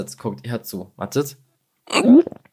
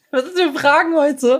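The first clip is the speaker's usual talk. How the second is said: lachend, mit sehr hoher Stimme; echt belustigt; 13 semitones higher, 4 dB louder than usual. Real, not acted. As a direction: die Frage hoch herauslachen. Lacht über die gestellte Frage. (amüsiert und ungläubig)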